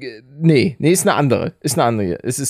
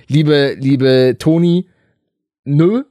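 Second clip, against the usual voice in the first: mock-sweet refusal; 5 dB louder, slower than usual. Mock reply to listener Toni.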